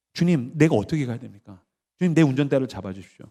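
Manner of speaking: low, soft plea; humble prayer. Acted. Unlicensed driver asks the Lord to steer, humble. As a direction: pray it quietly, surrendering.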